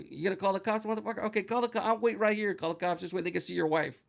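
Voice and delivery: daring the owner to call the cops; retold taunt. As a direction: taunt him to go ahead and call.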